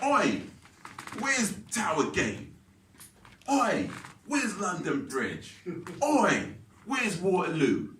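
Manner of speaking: high, drawn-out blunt calls; mock rude demand. Stranger demanding directions from courier, rudely calling out. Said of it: "they're rude about it".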